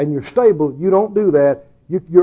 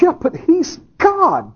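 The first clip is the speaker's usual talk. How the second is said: mock objector; 8 semitones higher, slower than usual. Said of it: "Somebody says".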